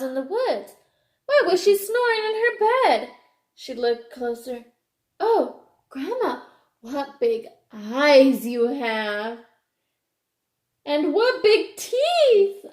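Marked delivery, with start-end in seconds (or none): 5.2-12.6 wide-eyed Red Riding Hood. Acted. Red Riding Hood facing the wolf.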